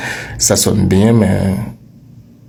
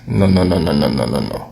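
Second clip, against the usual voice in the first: firm no; 4 semitones lower, faster than usual. Real, not acted. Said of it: "teacher rejects the mistake".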